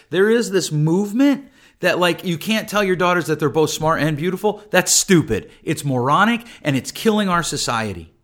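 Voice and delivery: getting worked up and pushing hard; fired up. Real, not acted. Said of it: "I'm getting a little fired up".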